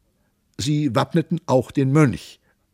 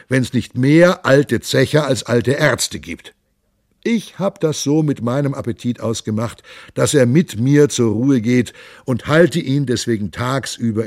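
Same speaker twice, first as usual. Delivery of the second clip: rousing, raised voice of a merry monk; hearty monk; 3 semitones higher, 3 dB louder than usual. Acted. The monk rouses the lords at dawn, loud and hearty. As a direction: call the lords to drink at dawn, jovial and loud.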